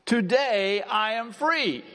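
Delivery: slow, high, firm "Today I am free"; emphatic declaration. Shown as a demonstration. Pastor leading the congregation to declare it emphatically. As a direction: proclaim "free" with conviction. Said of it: "Can you say that?".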